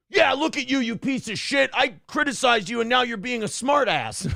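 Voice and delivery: mocking angry commenter. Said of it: "their response when you write that".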